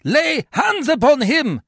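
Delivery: high, slow, loud command; crying out. A narrator's reading. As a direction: order him seized. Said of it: "Brutus cries out".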